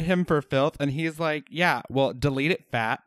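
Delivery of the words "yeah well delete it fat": shrieking insult. Retold or imitated.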